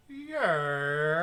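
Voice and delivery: drawn-out Aussie yeah; long rising Australian yeah; Aussie accent. Retold or imitated. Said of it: "thinking you were gonna go with".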